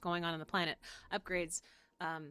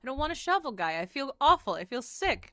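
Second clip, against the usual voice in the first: whiny complaint; 6 semitones higher, 6 dB louder than usual. Retold or imitated. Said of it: "I was like".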